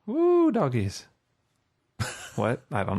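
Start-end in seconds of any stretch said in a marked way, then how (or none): 0.1-1.1 high, drawn-out hillbilly whoop; old prospector. Pretend. Hillbilly exclamation.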